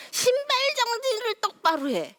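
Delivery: high whispered bark; mock father's order. Father ordering child at home, mock stern command. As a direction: hiss the order like a stern dad. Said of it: "집에 갖고 와서".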